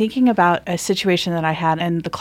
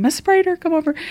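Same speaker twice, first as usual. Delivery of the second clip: retold yell; 10 semitones higher than usual. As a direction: shout the name across the hall. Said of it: "'cause I'm yelling".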